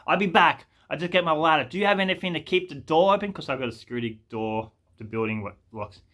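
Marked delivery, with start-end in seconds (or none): 0.1-3.3 raised, businesslike put-on voice; mock tradesman, a little higher; imitated tradie. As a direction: rattle off the job as the tradie. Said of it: "He's like".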